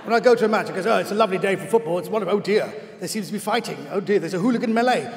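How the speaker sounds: middle-class fan gradually turning cockney; middle-class voice edging into cockney. Acted. Middle-class fan describing his day at a match, accent sliding into cockney. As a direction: start politely middle-class, slip towards cockney. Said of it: "the more cockney we get".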